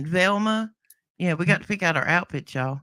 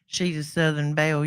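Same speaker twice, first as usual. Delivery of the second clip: Southern accent. Shown as a demonstration. Cohost gives her Southern accent some voice, lightly. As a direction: lean a little into a Southern belle accent. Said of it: "Let me give 'em some voice without this, uh, accent I cover".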